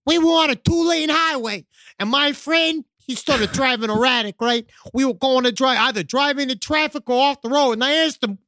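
lightly acted eyewitness account; homeowner recounting a haunting. Reads homeowner's driving account.

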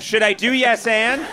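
mock-hesitant question with a laugh; put-on tentative questioning lilt; unconfident improviser. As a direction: tease a timid improv student. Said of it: "the unconfident improv troupe".

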